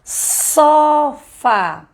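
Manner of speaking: put-on sofá drawn out high for the child; sounding out a word. Shown as a demonstration. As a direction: say sofá slowly and clearly, like modelling it for a pupil. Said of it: "Digamos assim".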